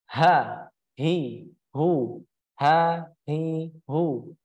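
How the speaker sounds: "ha, hi, hu" with breath felt flowing. Shown as a demonstration. Teacher lets students feel the airflow, breathy-h drill. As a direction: let the air run on each "ha", "hi", "hu". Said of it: "mengalir. Terasa nih".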